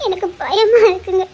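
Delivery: frightened wife sobbing to husband; tearful fear. Acted. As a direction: voice catching with tears. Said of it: "அழாத".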